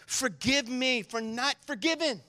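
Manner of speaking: slow, humble prayer. Shown as a demonstration. Pastor modelling a prayer for his church, slow and humble. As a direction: pray it slowly and humbly. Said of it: "we need to pray like this".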